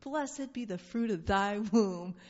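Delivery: slow, solemn greeting; tender, unhurried blessing; slow reverent blessing. Shown as a demonstration. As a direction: say it like a benediction. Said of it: "I would like my greeting to be".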